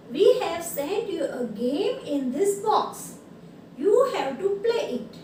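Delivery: very slow, emphatic letter reading; drawn-out classroom read-aloud. Real, not acted. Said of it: "now I will read this".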